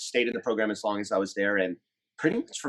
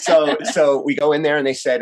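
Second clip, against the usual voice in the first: laughing; 5 semitones higher, 8 dB louder than usual. Real, not acted. Laughing while starting the story.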